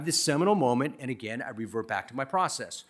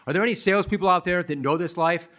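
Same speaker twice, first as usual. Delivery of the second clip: calling out; 5 semitones higher, 5 dB louder than usual. Real, not acted. Calls out to audience.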